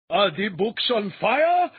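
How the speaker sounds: high, loud, slow shrill cry; panicked shriek of alarm; shrill exclaim. A narrator's reading. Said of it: "Behaid exclaimed in a shrill voice".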